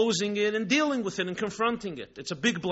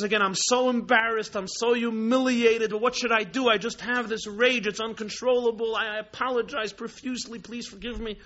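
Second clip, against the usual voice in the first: higher, pleading retold lament; mock crying apology; 5 semitones higher than usual. Poor man begs the bartender's forgiveness, mock tearful. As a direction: imitate a distraught man begging, voice raised without real tears. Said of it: "starts crying and he says".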